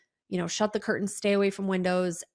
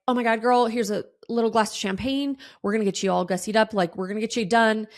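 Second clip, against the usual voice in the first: acting out gushing stylists, louder at first; sweet hype-up; 2 semitones higher, 3 dB louder, faster than usual. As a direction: lightly imitate stylists cheering a client on. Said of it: "they were really sweet".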